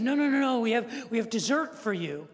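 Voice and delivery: imitating waiters insisting on dessert; eager insistence. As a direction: cheerfully stop them leaving.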